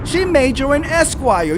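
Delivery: sarcastic, leaning on SHE; mock her claim with a sneer; mocking quote. Mocking a chat-room commentator's claim, sarcastic. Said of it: "That's what she said".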